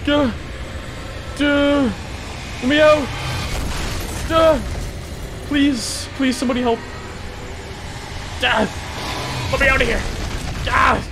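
panicked yelling. Real, not acted. Player trapped in the game, panicked high yelling. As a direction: shout to be let out, high and desperate.

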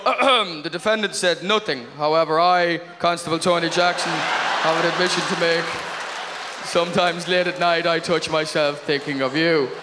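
deadpan it like evidence in court; mock court testimony. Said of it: "he would have to go into court and go".

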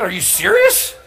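high, loud, laughing disbelief; incredulous outburst. Retold or imitated. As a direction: shout it like she's crazy. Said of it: "I said".

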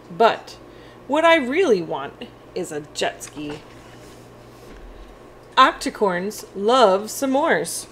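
lively, expressive picture-book read-aloud; reading to children. Acted. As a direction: read it brightly to young kids as Octi.

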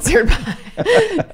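stretched out, breaking into laughter; laughing. Real, not acted. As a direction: say it while cracking up. Cracks up mid-phrase.

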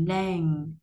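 "lan" with a long, hummed ending; held ng ending. Shown as a demonstration. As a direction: let the final ng in "lan" hum on. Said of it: "mình sẽ ngân".

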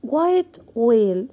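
White whale drawn out very slowly, h silent; slow model words. Shown as a demonstration. Teacher asks class if they hear the H, very slow. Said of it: "سمعنا صوت لل H؟".

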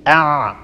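أع voiced from the same throat point; voiced ain demo. Shown as a demonstration. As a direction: squeeze أع out with voice. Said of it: "لاحظوا أنهما من مخرج واحد".

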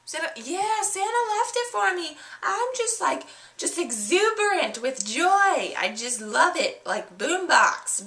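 put-on high, gushing girlish voice with a gasp and laugh; excited little girl. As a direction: squeal like a thrilled kid showing off presents.

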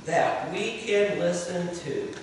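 leading prayer. Shown as a demonstration. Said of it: "everyone repeat after me".

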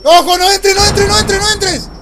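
loud, high urgent warning. Real, not acted. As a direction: shout the warning fast. Warning teammate mid-fight.

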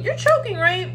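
high, disbelieving squeal; incredulous. Real, not acted. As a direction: shoot up in disbelief. Incredulous reaction.

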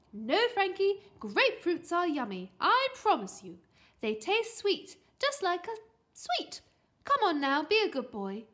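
high, loud pleading mother; insistent, upbeat persuasion; coaxing mum. A narrator's reading. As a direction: coax a fussy child along. Mum coaxing her son.

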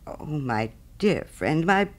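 slow, drawn-out affectionate protest; little Hans slowly pouring out devotion; fond cry. Acted. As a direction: linger earnestly over each word of friendship. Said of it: "cried little Hans".

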